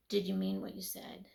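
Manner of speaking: a deep hushed voice from above; God's voice. Retold or imitated. A voice in the dream asks her, low and hushed. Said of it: "I hear a voice said".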